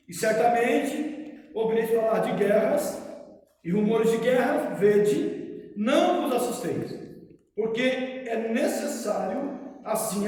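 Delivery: solemn, measured Bible reading; scripture reading. Acted. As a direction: read the Gospel aloud to the congregation. Reads Gospel passage aloud.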